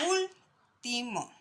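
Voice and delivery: "último" drawn out slowly, ÚL leaned on; slow "último", weight on the first syllable ÚL; syllable stress on ÚL. Shown as a demonstration. Teacher to pupils, showing stress on ÚL in "último". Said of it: "donde se marca la voz es en la tercera".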